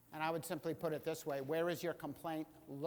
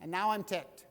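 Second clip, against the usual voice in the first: much higher and louder, told-you-so rant; exasperated Moses; 6 semitones higher, 13 dB louder than usual. Retold or imitated. Moses complaining to God that leading is horrible, loud and high. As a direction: vent at God, fed up. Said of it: "he's like".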